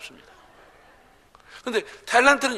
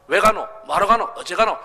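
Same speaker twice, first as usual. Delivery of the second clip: Gyeongsang dialect; 3 semitones higher, 6 dB louder than usual. Shown as a demonstration. Preacher demonstrating dialect to his church, emphatic. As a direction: drive home each 가노 ending. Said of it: "언제 어디서 누가 무엇을 왜".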